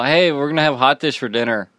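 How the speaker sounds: lightly mocked Minnesotan homey talk; Minnesotan accent. Daughter mocking mom announcing dinner, light Minnesotan accent. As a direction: imitate a Minnesotan mom's accent a little. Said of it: "because I mock them so much".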